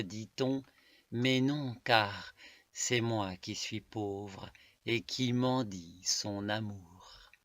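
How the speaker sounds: measured poetic reading, falling at line ends; poem recitation. Acted. Reading a love poem to listeners, measured recitation. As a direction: recite it in deliberate, spaced phrases.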